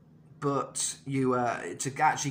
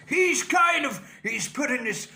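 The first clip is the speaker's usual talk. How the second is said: Dio tone; 12 semitones higher, 6 dB louder than usual. Shown as a demonstration. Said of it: "this kind of tone on his voice".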